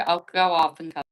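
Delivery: muffled, as if through a wall. Real, not acted. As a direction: dull muffled voice over a bad connection. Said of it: "Sounds like you're muffled".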